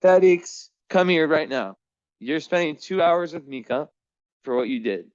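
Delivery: high, loud sharp call; calling the cat. Real, not acted. Owner hunting for cat Felix, loud high call.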